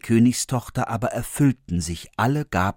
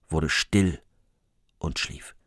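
fading to a whisper; 6 semitones lower, 7 dB quieter, slower than usual. A narrator's reading. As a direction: lower and softer, dying into a whisper. Refrain told twice, fading.

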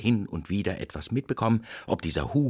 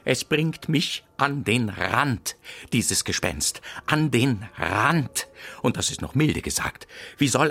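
theatralisches Jammern; 3 semitones higher than usual. Acted. Jammert über das Gespenst.

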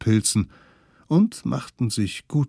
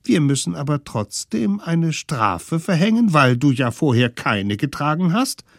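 higher, mock-official children; official kids' voice; 6 semitones higher, 4 dB louder than usual. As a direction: announce the fine like little officials. Kids impose fine.

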